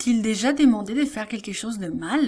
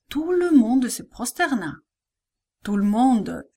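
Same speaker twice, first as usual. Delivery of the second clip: plain reading voice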